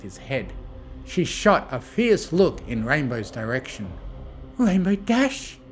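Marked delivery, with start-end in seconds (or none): 4.6-5.6 high, slow reproach; scolding. A narrator's reading. Fluttershy scolding Rainbow for her word, reproachful. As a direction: draw out the name to scold. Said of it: "Fluttershy scolded".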